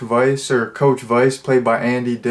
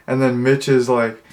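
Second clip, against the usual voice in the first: normal talking voice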